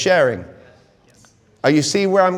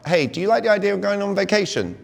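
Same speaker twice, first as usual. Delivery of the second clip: lightly pitched-up, inviting question on "going on vacation"; asking a question; 4 semitones higher, faster than usual. Acted. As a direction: ask "do you like the idea" as an open invitation. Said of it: "I ask my clients".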